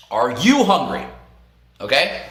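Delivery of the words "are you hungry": "you" picked out as the key word; repeated question with weight on "you"; stress on YOU. Retold or imitated. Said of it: "Hey, are you hungry?".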